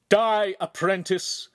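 loud, high, drawn-out battle cry; villain's killing cry; attacking shout. Acted. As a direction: roar it slowly as you charge to kill. Villain charges with sword extended.

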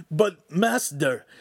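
high, very slow pleading; meek protest. A narrator's reading. Apprentice protesting to his master, slow and pleading. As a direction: draw out master in a whimper.

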